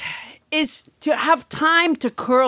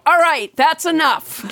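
stern mother; 3 semitones higher, 3 dB louder than usual. Acted. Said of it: "the mother has to come in and go".

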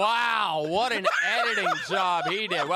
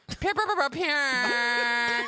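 high pew pew zaps; laser sound effects; 4 semitones higher, much slower than usual. Retold or imitated. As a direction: imitate laser blasts. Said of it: "imitating sound effects".

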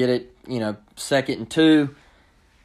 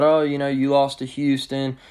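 mocking rival fans. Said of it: "they're gonna harp on us about".

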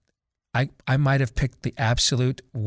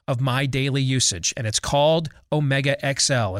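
podcast host live read for a supplement; 2 semitones higher than usual. Acted. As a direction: sell it like a friendly radio spot. Starts a sponsor live read.

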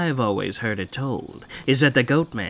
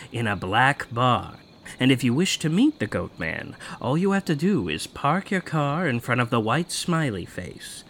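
telling a legend; 3 dB quieter than usual. Acted. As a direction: spin the legend to spook them.

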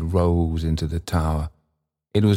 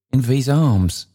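put-on higher-pitched old man; Trotty; 6 semitones higher, 3 dB louder than usual. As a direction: insist in a raised old man's voice.

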